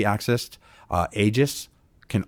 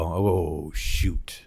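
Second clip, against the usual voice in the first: drawn-out, deflated "oh, shoot"; retold dismay; 3 semitones lower than usual. Provider hearing the client will need detox, dismayed. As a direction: let "shoot" fade into a near-whisper.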